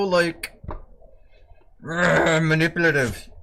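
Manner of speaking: sing-song pet scolding; mock scolding the dog. Real, not acted. Scolding the dog in baby talk.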